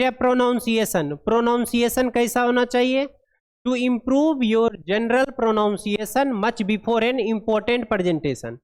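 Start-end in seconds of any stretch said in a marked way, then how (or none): 3.6-8.6 very slow, word-by-word reading of English text; deliberate classroom read-aloud; slow dictation read. Acted. Reads English guideline aloud.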